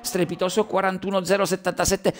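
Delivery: fast race commentary, rising with the action; live play-by-play. Real, not acted. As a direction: call the qualifying lap live.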